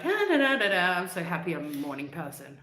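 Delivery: chirpy "morning person" act; mock morning cheer. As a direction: trill a silly happy wake-up, easing down to normal. Acts out waking up manic happy.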